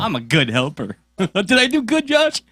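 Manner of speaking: mock little kid voice; childlike helper voice. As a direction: play a small kid fishing for praise. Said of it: "Look at me helping".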